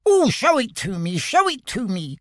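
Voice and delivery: high, eager pleading; eager Piglet. Acted. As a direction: beg to see it, like a small pig. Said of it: "cried Piglet".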